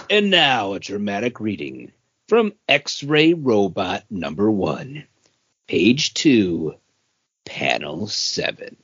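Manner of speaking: mock announcer intro, slowing at the end; hammed-up radio announcer voice; dramatic reading. Host introducing the segment in a mock announcer voice. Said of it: "our dramatic reading".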